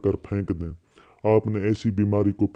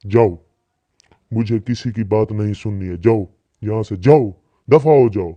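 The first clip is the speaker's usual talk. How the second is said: angry dismissal; 5 dB louder than usual. Acted. Doctor throws quarrelling couple out.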